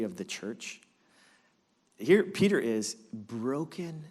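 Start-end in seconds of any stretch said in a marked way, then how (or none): 2.0-4.0 sombre. Acted. Peter broken in shame.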